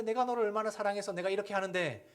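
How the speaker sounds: half-voiced parent. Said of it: "라고 하는 건".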